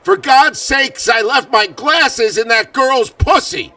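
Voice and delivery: high, loud, slow mock outburst; mock exasperated yell. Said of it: "nor did he say".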